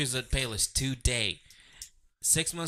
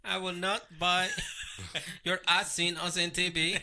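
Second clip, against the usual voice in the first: put-on Indian accent. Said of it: "That is a terrible Indian accent".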